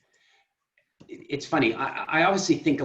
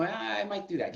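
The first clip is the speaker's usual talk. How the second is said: tempted inner voice; 5 semitones higher, 8 dB quieter than usual. Retold or imitated. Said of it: "then I might go".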